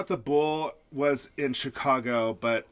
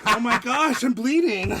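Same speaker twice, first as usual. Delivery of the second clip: mock dying Hoda; 8 semitones higher, 5 dB louder than usual. Stabbed Hoda, mock pain.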